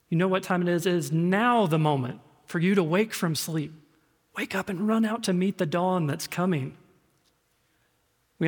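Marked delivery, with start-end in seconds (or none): 0.1-6.8 urgent wake-up summons, a little lifted. Acted. Preacher voicing Paul waking the congregation, urgent. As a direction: rouse them with mounting urgency. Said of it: "You hear the urgency in Paul's voice".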